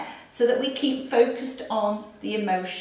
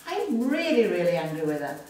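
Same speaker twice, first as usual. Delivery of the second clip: mild anger; faster than usual. Shown as a demonstration. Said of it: "Under the nose".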